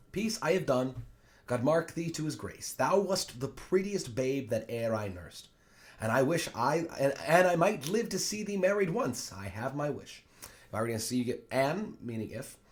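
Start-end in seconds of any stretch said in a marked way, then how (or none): 0.1-10.2 higher, theatrical Shakespearean blessing; animated reading as the doting nurse; fond nurse. Acted. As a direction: dote on the girl you nursed.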